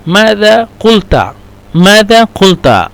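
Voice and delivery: ماذا قلت with a full clear qaf, slow; formal Arabic. Shown as a demonstration. Teacher models standard Arabic ماذا قلت slowly. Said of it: "هنا اللغة فصحى".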